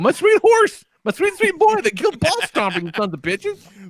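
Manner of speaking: overacted grieving for a dead horse; hammed-up mourning; mock lament.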